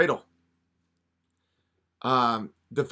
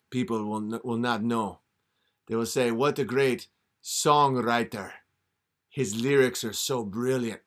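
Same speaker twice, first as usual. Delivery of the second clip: a hint of a scheming devil; devil tempting; 2 semitones lower than usual. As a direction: coax him like a smooth devil. Devil makes deal.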